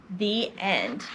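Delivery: low, soft closing line; quiet storybook sign-off; story ending. A narrator's reading. Closes the story.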